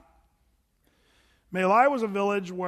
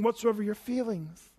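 mock dreamy; 2 semitones higher than usual. Shown as a demonstration. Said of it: "You have to say it like that".

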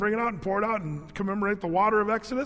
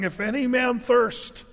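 a lifted, measured public cry; proclaiming cry. Acted. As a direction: call it out like a preacher to a feast crowd. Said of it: "Jesus stood up and cried".

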